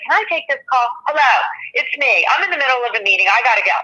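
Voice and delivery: hurried curt phone answer mid-meeting; rushed brush-off. Retold or imitated. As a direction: brush off the caller quickly. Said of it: "they sound like a jerk".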